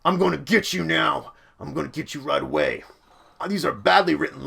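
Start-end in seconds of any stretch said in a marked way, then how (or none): 0.1-2.8 action-scene enemy yelling; yelling villain. Shown as a demonstration. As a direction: yell it at the heroes. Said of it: "They might be like".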